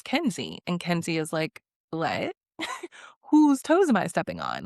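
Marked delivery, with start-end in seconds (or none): 1.9-4.6 retold bewildered question; genuinely confused. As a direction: play mildly baffled, puzzled at the accusation. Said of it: "she's genuinely confused".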